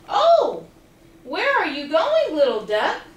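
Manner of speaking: lightly voiced curious stranger; friendly Ladder voice. Ladder asking the little duck where he goes.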